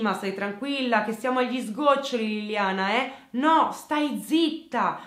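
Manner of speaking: raging phone rant, high and loud; furious yelling. Retold or imitated. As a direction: scream abuse down the phone, slowing on the threats. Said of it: "Davide sbraita il telefono". (il fidanzato sbraita al telefono contro Liliana, urlando furioso)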